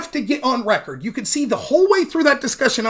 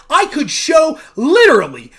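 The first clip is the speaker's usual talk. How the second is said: emphatic shout; 3 semitones higher, 4 dB louder than usual. Real, not acted. Ranting to audience, shout.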